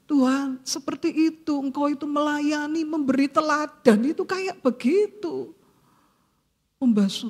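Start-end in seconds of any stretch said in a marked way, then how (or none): 0.1-5.6 a hint of tearful awe, pitched higher; mildly voiced moved prayer to the Lord. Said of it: "Saya nangis".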